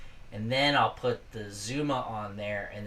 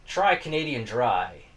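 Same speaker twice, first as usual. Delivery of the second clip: put-on Canadian accent; 4 dB louder, slower than usual. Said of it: "Canadians sound like this".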